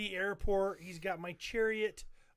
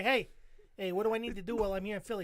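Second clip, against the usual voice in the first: quick mock exchange in Philly accent; hammed-up Philadelphia directions; faster than usual. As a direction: play a helpful Philly local. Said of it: "You go up to anybody in Philly".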